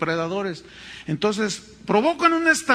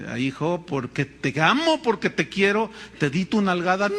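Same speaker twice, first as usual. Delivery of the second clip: gentle father. Retold or imitated. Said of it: "El papá lo mira y dice".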